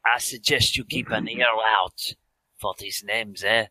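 put-on thick French accent, lightly done. Swedish seer warning Professor Perrin, in a light French accent. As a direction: lean into a French seer's vowels. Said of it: "I've got a very French now".

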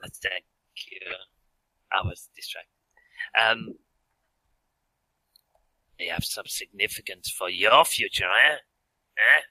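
put-on thick French accent, lightly done. Swedish seer warning Professor Perrin, in a light French accent. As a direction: lean into a French seer's vowels. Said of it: "I've got a very French now".

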